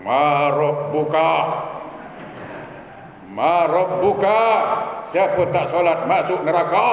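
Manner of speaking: mother's mock grave question. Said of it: "Kata mak saya".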